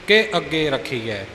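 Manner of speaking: ਕੇ said as a plain ke, never as ki; plain ke, no sihari. Shown as a demonstration. Teacher showing ਕੇ said as a plain ke, no sihari. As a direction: keep ਕੇ short and clean, no i sound. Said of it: "ਕੇ ਦਾ ਵੀ ਕੇ ਨਾ ਬਣੇ".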